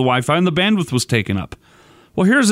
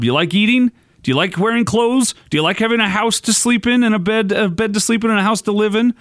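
a hint of exasperated dad, higher pitched; rapid-fire rhetorical questions in a mild dad scolding; lightly acted lecturing dad; 5 semitones higher than usual. Dad lecturing kids who want the Wi-Fi, mock scolding.

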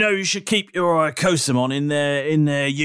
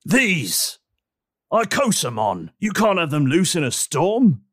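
lightly voiced stern officer; 3 semitones higher than usual. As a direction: scold them like a jumpy policeman.

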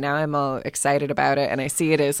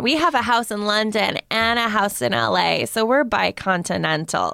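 dog-owner impression; 5 semitones higher than usual. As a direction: answer as the doting dog lady. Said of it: "ask me questions as her".

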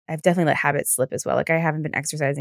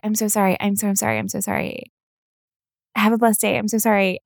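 higher, sing-song sorry; gushing apology; 4 semitones higher than usual. Retold or imitated. Singing lady apologizing to passengers, higher and gushing. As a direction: overdo the apology.

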